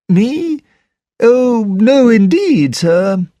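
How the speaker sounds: high, flustered butler denial; startled denial. Acted. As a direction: brush off the accusation, startled. Butler denies calling.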